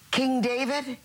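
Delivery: incredulous, laughing through the questions; laughing disbelief. Acted. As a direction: chuckle as you throw his sins back at him. Sinner mocks King David's refusal.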